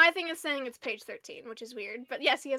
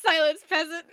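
mock royal decree. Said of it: "I found it".

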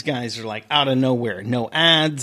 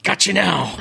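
high, smug gotcha; 7 semitones higher than usual. Retold or imitated. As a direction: gloat like a trap sprung. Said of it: "he was like".

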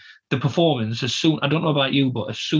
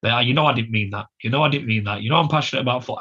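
apologetic to dog; 3 semitones lower than usual. Retold or imitated. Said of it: "I gave him a hug and said".

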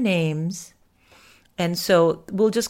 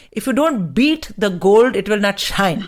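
imitating mother; 5 dB louder than usual. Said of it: "my mother used to say".

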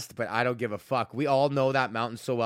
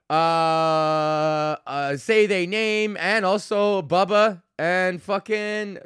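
hyped roll call; 5 semitones higher, 5 dB louder, slower than usual. Acted.

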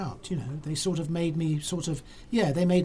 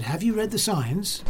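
higher-pitched accusing question; mildly acted officious question, pitched up; retold challenge; 5 semitones higher than usual. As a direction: imitate a man challenging a cyclist. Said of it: "He said".

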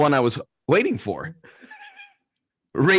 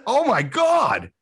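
high, slow mock horror; mortified; 7 semitones higher, much slower than usual. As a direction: draw it out in retold embarrassment. Retelling his humiliation at the snub.

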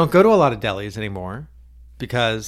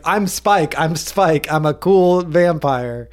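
lightly voiced cocky vampire; a hint of a smug cool vampire, slow; Spike impression; 3 dB louder, slower than usual. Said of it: "literally being like".

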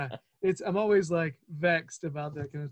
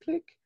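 mock timer click; 11 semitones higher than usual. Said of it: "start the pretend timer".

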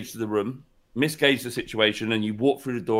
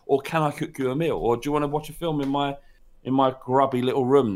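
soft suggested invite. Retold or imitated. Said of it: "Just say".

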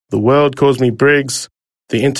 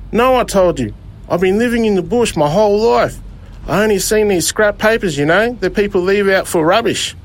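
put-on higher, eager young fella's voice; a young rock-and-roll singer; 7 semitones higher than usual. Lost bush kid asking the driver for a lift, eager. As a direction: ask it brightly like a hopeful bush kid.

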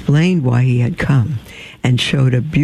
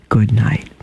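whisper; 3 semitones lower than usual. Acted. The star whispering good night to Mimosa, hushed. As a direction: breathe it like a secret blessing.

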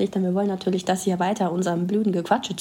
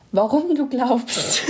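stifled giggles; 3 semitones higher, slower than usual. Real, not acted. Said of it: "reiß dich zusammen".

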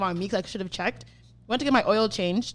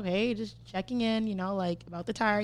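cool, casual; 8 dB quieter than usual. Retold or imitated. Customer calling the shop back about the tire, casually. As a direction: keep the follow-up call easygoing. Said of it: "I was super cool".

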